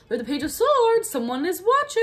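sudden high, loud eerie pronouncement; spooky dramatic voice. Acted. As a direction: say it like an ominous omen. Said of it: "I don't know why I said that like that".

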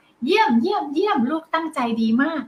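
high, bouncing cheer, each เยี่ยม lifted; excited praise. Shown as a demonstration. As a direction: cheer the child on brightly. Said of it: "แค่ขยับปาก...ก็ชมนะคะ". (ชมลูกอย่างตื่นเต้น เสียงสูง)

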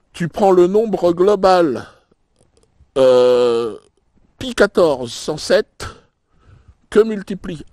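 slow, deliberate explaining. Acted. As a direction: spell it out slowly. Explaining the calculation slowly.

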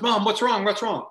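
high, urgent mock-alarmed questions; acted alarm. Woken player asks his mom what's wrong, acted alarm. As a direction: imitate a startled son, pitched well up.

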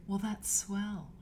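slow, lightly imitated auntie; Aunt Lisa. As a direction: draw it out like a sweet old-fashioned aunt. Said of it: "And she's like".

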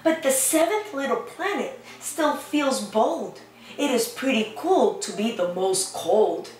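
gentle storybook reading voice; lightly sing-song picture book reading; reading to children. Acted. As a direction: read the rhyme to little ones. Reads picture book aloud.

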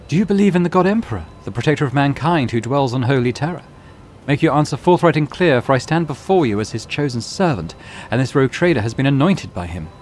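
loud, high, commanding challenge; zealous interrogator. Acted. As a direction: demand an answer with righteous fervour. Zealot interrogating a suspected heretic.

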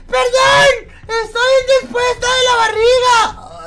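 high, slow falsetto apology; woman voice. Pretend. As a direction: call out as a fussy lady. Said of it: "hago voz de mujer".

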